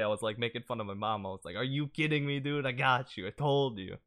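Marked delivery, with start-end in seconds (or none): 1.6-4.0 teasing gloat. Retold or imitated. Gloating at mom, making fun.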